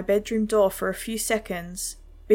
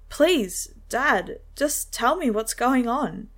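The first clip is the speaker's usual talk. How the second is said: shaky pleading; 3 semitones higher, slower than usual. Acted. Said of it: "my shaky voice pleaded".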